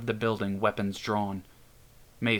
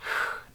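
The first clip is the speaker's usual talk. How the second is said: low hiss. Acted. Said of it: "Doc let out a low hiss".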